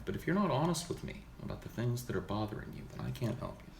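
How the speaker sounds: lightly played therapist, soft and measured; psychotherapist. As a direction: counsel a patient quietly, with long pauses. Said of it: "Do a psychotherapist?".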